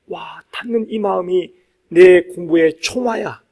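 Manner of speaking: ordinary talk, nothing marked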